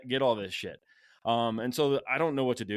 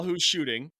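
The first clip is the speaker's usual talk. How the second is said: mild mock holler, pitched up; lightly raised calling voice; retold yell; 4 semitones higher, 3 dB louder than usual. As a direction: imitate a friend's yell, held back. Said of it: "you, you yell".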